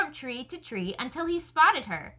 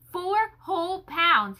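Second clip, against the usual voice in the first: muttered repeat; 5 semitones higher, slower than usual. Acted. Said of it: "he repeated to himself over and over".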